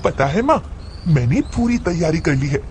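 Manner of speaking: lightly voiced childlike mad girl, coaxing; a hint of a little-girl plea. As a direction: nag mother like an eager schoolgirl. Mad girl talks to mother.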